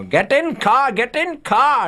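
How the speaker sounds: high-pitched mock shout of an order; high, insistent retold yell. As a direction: imitate an excitable friend shouting orders, voice shooting up. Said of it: "B K shouting at Viggo".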